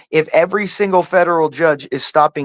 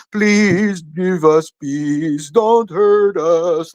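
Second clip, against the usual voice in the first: slow, drawn-out mocking plea for peace; mock whiny plea; much slower than usual. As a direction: stretch it out like a weak singsong beg. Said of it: "singing a song of".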